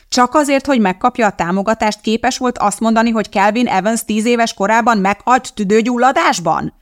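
high, loud furious tirade; angry woman. Acted. Woman berates the bishop on the phone, furious and high. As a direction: rage at him down the line.

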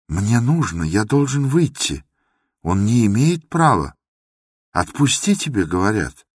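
agitated demand. Acted. Андрей требует выпустить.

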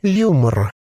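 a possessed corpse bubbling out its words; gurgling voice. A narrator's reading. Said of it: "бульканье маслянистого варева".

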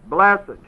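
"blessed" punched loud, falling; stress on blessed. Shown as a demonstration. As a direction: hit "blessed" hard. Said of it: "you'd emphasize the word blessed".

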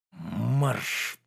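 shout. A narrator's reading. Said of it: "закричал он".

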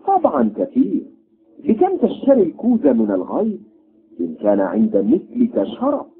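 indignant haggling. Acted. Doctor haggles angrily.

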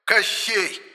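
high shrill name-calling; squabbling insults. A narrator's reading. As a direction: spit each insult out. Ghosts trade insults. (визгливая перебранка)

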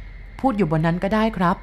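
slow, weary, dry-voiced reply; a hint of a hoarse, tired drifter. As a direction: speak slowly, worn out. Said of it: "พูดช้าๆ เสียงแหบแห้ง".

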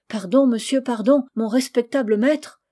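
quavering voice. Acted. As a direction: beg forgiveness with a slight tremble. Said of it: "d'une voix chevrotante". (voix un peu chevrotante, suppliante)

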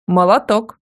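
a grandmother thrilled with her granddaughter; hearty approving shout; cheerful exclamation. A narrator's reading. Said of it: "бодро воскликнула бабушка".

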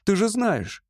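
exclaiming. A narrator's reading. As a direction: lift it up eagerly. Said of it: "воскликнул он".

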